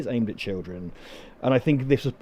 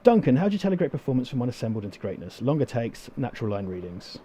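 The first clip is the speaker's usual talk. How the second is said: flat robotic reading; monotone robot read, no questions. Real, not acted. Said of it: "I read it like a robot".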